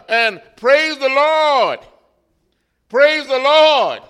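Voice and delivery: slow, ringing praise the Lord, pitched high; hammed-up church praise; mock joyful praise. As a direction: imitate the sister praising. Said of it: "She says".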